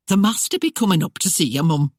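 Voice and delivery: lightly voiced country housekeeper, a touch quick; urging her mistress along, lightly voiced; housekeeper Aggie. Housekeeper hurrying the bride to get up, light eager voice.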